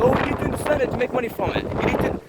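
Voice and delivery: high, fast sneering parody of critics; mocking sneer. Mocking the critics who lecture him, sneering parody. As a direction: mimic the know-it-alls with scorn.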